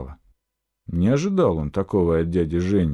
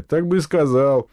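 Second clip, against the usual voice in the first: amused, lifted voice; high, good-humoured reply; laughing; 7 semitones higher, 4 dB louder than usual. A narrator's reading. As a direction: toss it off with light amusement. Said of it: "засмеялся дядя Женя".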